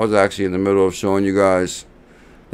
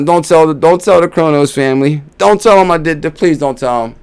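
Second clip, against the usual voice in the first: mock pleading; 5 semitones higher than usual. Begs to keep it secret.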